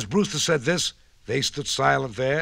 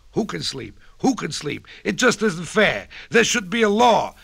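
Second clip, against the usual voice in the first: yelling hare; 6 semitones higher, 4 dB louder than usual. A narrator's reading. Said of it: "yelled Hubert the hare".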